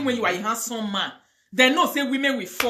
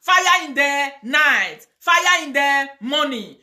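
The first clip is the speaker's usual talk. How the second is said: fire prayer; 3 semitones higher, 4 dB louder, much slower than usual. Real, not acted. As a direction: draw out each fire call. Slow shouted fire prayer.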